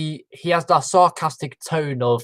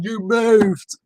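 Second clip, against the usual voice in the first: exasperated shout; 7 semitones higher than usual. Retold or imitated. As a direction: shout it at her, high. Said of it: "jumps into the sand".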